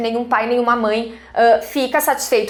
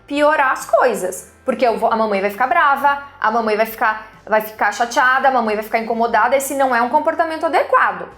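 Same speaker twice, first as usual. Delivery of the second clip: kneel at eye level and say it calmly, no scolding; calm firm talk to child. Shown as a demonstration. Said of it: "Fala com calma o que você quer".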